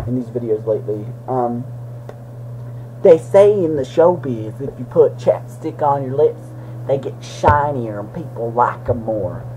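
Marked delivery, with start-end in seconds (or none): 3.0-9.4 a hint of an old-time showbiz insider; slow, knowing showbiz pitch. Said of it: "That's not what they say in the showbiz".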